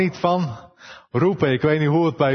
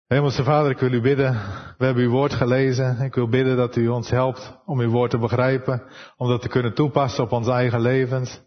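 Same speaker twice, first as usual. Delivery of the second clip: prayer; 3 semitones lower than usual. Acted. Preacher praying to God before the sermon, humble prayer. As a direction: pray humbly to the heavenly Father.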